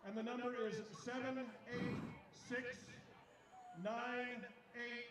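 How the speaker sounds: raffle caller. Real, not acted. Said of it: "PA announcer reads raffle winners".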